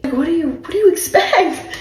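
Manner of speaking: high, fast, laughing retort; incredulous rant. Retold or imitated. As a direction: rattle it off in disbelief. Retold comeback, high and fast.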